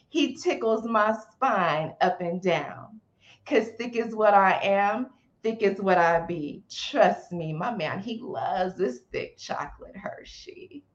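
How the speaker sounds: spoken word poem recital; nervous open mic poet. Acted. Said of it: "a short poem you could say for us".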